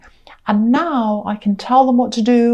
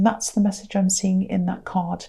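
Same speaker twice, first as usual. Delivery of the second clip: whisper; 2 semitones lower, 5 dB quieter than usual. Real, not acted. Ends card message.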